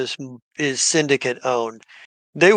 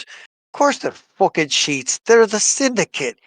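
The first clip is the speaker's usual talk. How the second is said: scornful, rising into a laughing insult; mock the dumb doctor, higher and louder; Dovry's scorn; 6 semitones higher, 3 dB louder than usual. Dovry scoffs at the doctor, laughing, pitched up. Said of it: "she looks at him and goes".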